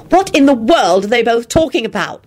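hissed. Acted. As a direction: ask it in an exasperated hiss. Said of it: "Elizabeth hissed".

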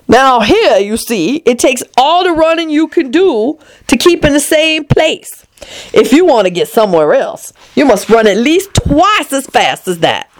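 lightly voiced, lecturing queen; imperious Red Queen. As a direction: instruct her like royalty.

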